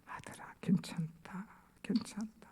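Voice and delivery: very soft, whispery reassurance; gentle father, barely voiced; acted tender forgiveness. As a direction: soothe your son in a hushed voice. Father gently forgives kneeling son.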